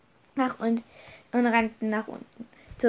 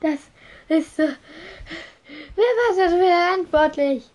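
high, loud demand for the culprit; raised, high-pitched outrage; indignant shout; 7 semitones higher, 5 dB louder than usual. A narrator's reading. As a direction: cry out, demanding an answer. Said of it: "rief McGonagall".

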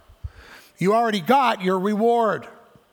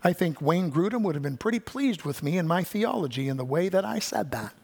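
smug self-praise; 5 dB quieter than usual. Retold or imitated. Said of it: "you're not going".

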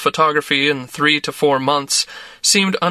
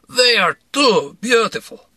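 higher, slow, hammy Russian swoon; gushing Russian man; 7 semitones higher, slower than usual. A narrator's reading. Misha gushes about Russian women to the narrator, a higher, slow, hammy Russian swoon. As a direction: lay the charm on thick.

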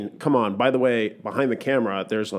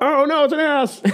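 high, laughing through mock panic; laughing flustered; 3 dB louder than usual. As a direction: laugh while faking embarrassment. Acting flustered at fax, laughing.

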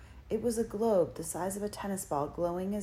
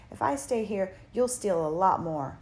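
put-on defiant boy; 2 semitones higher, 4 dB louder than usual. A narrator's reading. Harvey refusing to stay with Hood, louder defiance. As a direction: stand your ground, raised voice.

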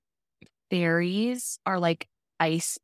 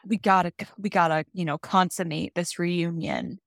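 eager shooing. Retold or imitated. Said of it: "then he's like".

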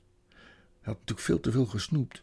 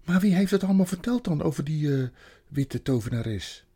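loud, high question sinking to usual pitch; uneasy boy; 5 semitones higher, 5 dB louder than usual. Acted. Edmund asks Lucie who told her, uneasy and loud. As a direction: start high and loud, then falter.

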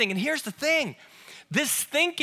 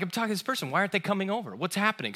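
mild mock muttering; 5 dB quieter, faster than usual. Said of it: "I'm like".

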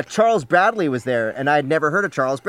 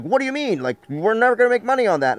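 incredulous quote; 8 semitones higher than usual. Retold or imitated.

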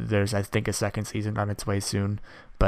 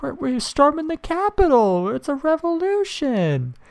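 mock crying girl; 5 dB louder than usual. Mocking the rioter's tearful revolution claim, high sob. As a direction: whine it out like a pitiful child. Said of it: "she's like".

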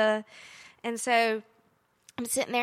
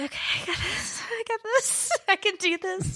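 high, squeaky self-encouragement; acted-out shaky confidence; mock panicky pep talk; 9 semitones higher than usual. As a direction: squeak it out, climbing higher as you go.

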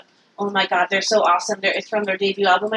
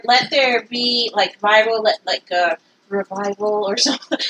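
prayer. Pretend. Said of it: "we're gonna end it with a prayer right now".

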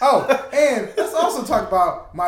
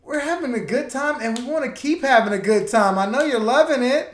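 infomercial pitch; 6 semitones higher, 3 dB louder than usual. Pretend. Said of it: "sound like a church infomercial".

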